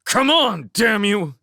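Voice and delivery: high loud urging. Acted. Desperate man urging the missing engine. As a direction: plead and shout it at once.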